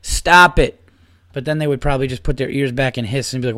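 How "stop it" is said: slow, emphatic telling-off, pitched up; exasperated scolding. Acted. Man telling off his cats for ripping the rug, exasperated scolding. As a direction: drag out each word like scolding naughty pets.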